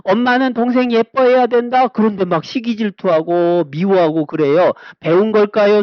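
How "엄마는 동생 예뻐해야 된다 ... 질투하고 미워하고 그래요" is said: normal talking voice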